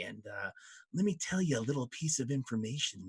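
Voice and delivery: a hint of a mellow stoner imp; laid-back imp. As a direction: play it cool and conspiratorial. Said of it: "one of them looks, he says".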